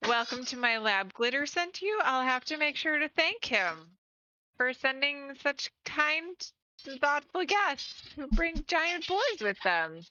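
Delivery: a hint of an imperious hostess; put-upon lab owner.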